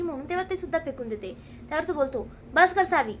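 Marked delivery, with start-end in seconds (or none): 2.5-3.1 a sharp, louder mock yell of stop it; scolding yell. Dhairya yelling at Savi to stop, a mock loud scold. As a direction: bark her name like a fed-up elder. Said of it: "चांगलाच ओरडतो".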